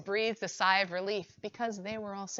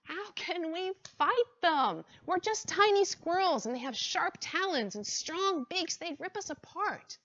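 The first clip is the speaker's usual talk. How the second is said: squirrel voice; 8 semitones higher than usual. Acted. Squirrel council, fearful objection.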